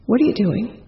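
the same ghost asking again; ghostly woman's voice. Retold or imitated. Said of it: "I hear this woman's voice right by my right ear say".

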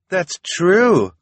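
high, loud exclamation; excited cry. A narrator's reading. Reporter seizing on the knife, crying out. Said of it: "the reporter cried".

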